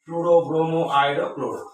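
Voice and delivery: ফ্লুরো, ব্রোমো, আয়োডো, ক্লোরো spaced out, each with a clear final "o"; pronunciation demo. Shown as a demonstration. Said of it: "এরকম উচ্চারণ হবে".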